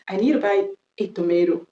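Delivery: American "tomato" with an "ay" middle vowel; American accent. Shown as a demonstration. Teacher giving an example sentence, American accent. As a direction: say "tomato" as to-MAY-do, American style. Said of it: "je viens de faire l'accent américain".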